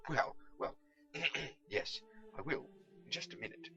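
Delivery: flustered, stalling nervous voice; hurried bluff. Acted. Pickle stalls when asked to fly, hurried and flustered. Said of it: "said Pickle hurriedly".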